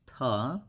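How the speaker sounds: TA as an isolated syllable with rising tune; sounded-out pronunciation. Shown as a demonstration. Teacher breaking down the pronunciation of stomach, isolated syllable. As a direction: give TA alone, lifted at the end. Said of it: "And the pronunciation is".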